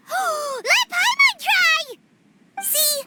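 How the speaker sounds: high, drawn-out gasping eagerness; eager excitement. Acted. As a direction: gasp and beg to taste it. Paimon hears of new recipe.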